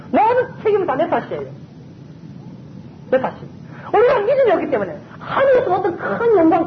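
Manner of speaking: pleading through tears from the pulpit; preacher choking up mid-sermon; tearful preaching. Real, not acted. Emotional preaching, crying heard.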